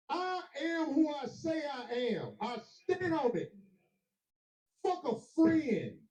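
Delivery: slow, deliberate, hammered out; slow defiant vow; defiant declaration. Real, not acted. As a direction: plant your feet and declare it. Angry exit rant.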